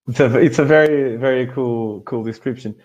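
normal talking voice

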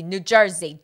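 New Jersey said as nu tʃɑ˞zi; New Jersey, casual Jersey style; Jersey pronunciation. Shown as a demonstration. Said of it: "know anything about New Jersey".

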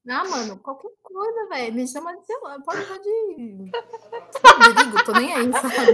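muito mais alto e agudo, entre risadas; rindo alto, debochada. Acted. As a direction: jogue o nome rindo, em tom de deboche. S1 zomba do apelido, rindo. (rindo alto em tom de deboche)

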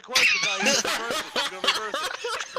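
high excited yell; excited squeal. Real, not acted. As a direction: squeal it in alarm. Predicting the question.

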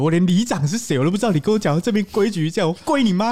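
angry rant. Real, not acted. Ranting angrily about neighbour.

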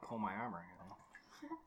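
talking while chewing; mouth full. Real, not acted. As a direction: speak around a mouthful of egg. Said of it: "Sorry if you can hear the chewing".

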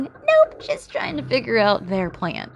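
sarcastic nope. Acted. Host scoffing at police who only watched, sarcastic. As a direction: snap it out mockingly.

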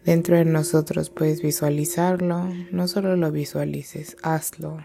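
calm, measured meditation guide with long pauses; guided meditation. Real, not acted. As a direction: guide them gently inward, leaving space between phrases. (meditación guiada, tranquila y pausada)

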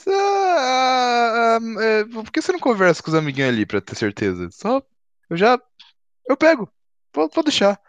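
high, jittery nervous shopkeeper; squeaky anxious stalling. Acted. Nervous baker stalling the police.

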